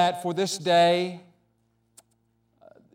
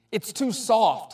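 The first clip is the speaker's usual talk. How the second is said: sighing; 6 semitones higher, slower than usual. Acted. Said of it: "he sighed".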